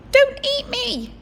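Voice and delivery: frightened cry. Acted. George begs the hungry ogre, high and loud. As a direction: beg not to be eaten. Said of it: "cried George".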